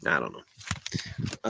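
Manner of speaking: soft breathy "I don't know"; whispered. Real, not acted. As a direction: whisper it to yourself, slowly. Muttered aside.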